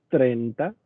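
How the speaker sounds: "treinta" dicho a la catalana, como "trenta"; pronunciación catalana. Shown as a demonstration. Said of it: "porque en catalán es". ("treinta" en catalán: "trenta")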